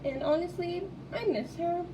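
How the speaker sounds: real tearful catch, pitched high; high, choked-up confession; voice breaking. Real, not acted. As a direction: fight back tears as the voice rises and cracks. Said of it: "Sorry, my voice is breaking".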